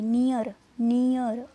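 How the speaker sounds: नियर loud, as "nee-uh" plus r; ee-uh sound demo. Shown as a demonstration. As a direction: show the "ee" gliding into "uh" in नियर. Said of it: "ई अ की sound आएगी". (नियर में ई-अ की ध्वनि ज़ोर से)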